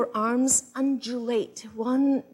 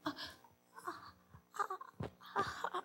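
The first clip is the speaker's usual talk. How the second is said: tender murmur; 6 semitones higher, slower than usual. Shown as a demonstration. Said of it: "murmur something tender like".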